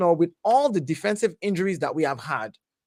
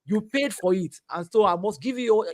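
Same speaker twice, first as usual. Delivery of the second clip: Yoruba accent; 2 semitones higher than usual. Real, not acted. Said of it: "The Yoruba accent is coming out".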